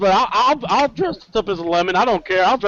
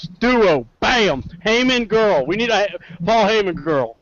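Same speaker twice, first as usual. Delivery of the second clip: Southern voice. Acted. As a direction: hype it up with a touch of Southern preacher-like accent. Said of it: "that's my Southern voice".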